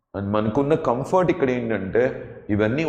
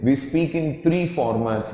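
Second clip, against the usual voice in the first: slow English; much slower than usual. Shown as a demonstration. Teacher slows for English line.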